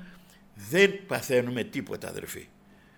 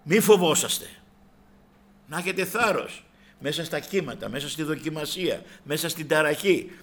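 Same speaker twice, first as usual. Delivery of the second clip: raised preaching voice; 3 semitones higher, 4 dB louder than usual. Retold or imitated. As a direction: lift the voice to encourage. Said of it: "λέει".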